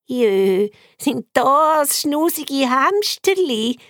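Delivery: delighted grandma. Acted. Grandma delighted at seeing the pets, gushing. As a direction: coo over cute little animals. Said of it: "ruft das Grossi begeistert".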